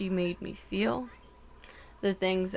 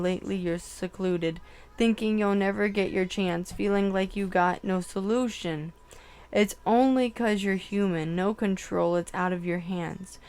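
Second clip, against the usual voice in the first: lyric reading. Acted. Reads song lyrics aloud.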